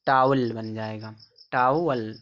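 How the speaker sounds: "टावल" slowly as tau-al, low; demo pronunciation. Shown as a demonstration. Teacher shows what the joined word becomes, slow "टावल". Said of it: "तो क्या बन जाएगा?".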